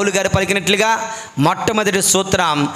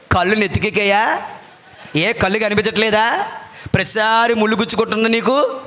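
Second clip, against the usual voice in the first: exasperated questions, each lifted at the end; mild retold scolding. Husband scolds wife for stepping on thorns every time, mildly exasperated. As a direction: imitate a fed-up husband's scolding, lightly. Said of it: "గద్దించాడంట".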